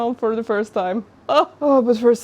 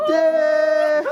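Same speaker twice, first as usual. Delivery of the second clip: excited; 7 semitones higher, 5 dB louder than usual. Real, not acted. Lights switched on.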